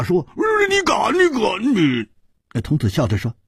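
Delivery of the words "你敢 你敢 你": very high, spluttering outrage; outraged shout. Acted. Hu Tiehua outraged at threat of being stripped, outraged shout. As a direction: cry out in alarm, then choke off. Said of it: "胡铁花的眼睛果然瞪得比鸡蛋还大".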